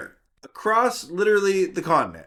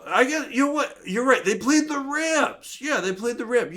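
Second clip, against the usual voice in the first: lightly voiced old man; 9 semitones higher than usual. Voicing old man remembering.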